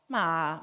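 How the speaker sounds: "ma" low, dipping then lifting slightly; Thai tone demo. Shown as a demonstration. Showing the audience three Thai tones, dipping "ma". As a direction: dip low on "ma" and come gently up. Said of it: "São cinco tons, mas eu vou falar só três".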